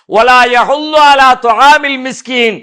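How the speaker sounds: slow Quranic recitation. Acted. Verse recited.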